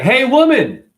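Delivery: loud, high holler. Retold or imitated. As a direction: bark across the room at her. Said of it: "hollering at a, a, a girl".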